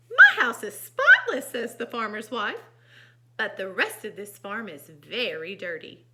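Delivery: animated storytime delivery; story narration. A narrator's reading. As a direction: read to young children, stressing key words. Reads picture book aloud.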